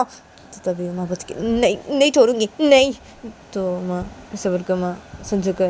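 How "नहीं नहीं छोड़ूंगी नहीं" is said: higher, insistent refusal; stubborn, pitched-up no. Acted. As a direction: refuse to let go, voice lifting. Uma refuses to let go.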